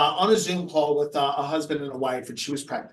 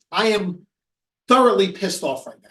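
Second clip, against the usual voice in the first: retold anger, firm and loud; controlled, emphatic mock anger; pissed off; 6 dB louder than usual. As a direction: imitate a fed-up client, hitting each word. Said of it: "he was pissed".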